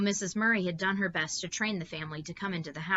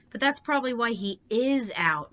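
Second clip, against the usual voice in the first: a louder, fretful wail; 6 semitones higher, 7 dB louder than usual. A narrator's reading. Meg wails at her mother, fretful and loud. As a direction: plead in a frightened whine. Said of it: "Meg wailed".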